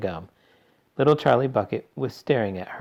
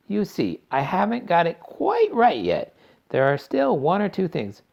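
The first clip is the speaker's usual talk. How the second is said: eccentric chocolatier voice; 10 semitones higher than usual. A narrator's reading. Wonka explains.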